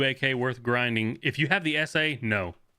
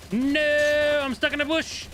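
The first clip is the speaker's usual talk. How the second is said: high squeaky falsetto whine; squeaky high complaint; whiny squeak; 12 semitones higher, 3 dB louder, slower than usual. Real, not acted. Stuck in a bush in game.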